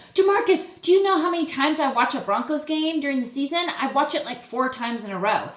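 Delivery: imitated scream that stops short of full volume; mock fangirl scream. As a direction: pretend to freak out at your idol. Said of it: "wanted to scream and be like".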